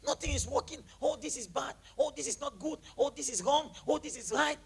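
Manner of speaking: hammed-up habitual complainer; mock complaining. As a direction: reel off petty gripes in a whiny lilt. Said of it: "Why must you always be complaining?".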